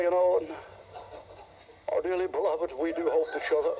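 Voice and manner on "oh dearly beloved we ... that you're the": smooth TV preacher. Retold or imitated. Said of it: "stand in front of that camera".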